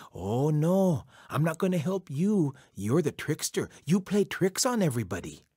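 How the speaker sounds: put-on firm old woman character voice, refusing; dismissive old woman. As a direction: scold a known trickster as an old woman.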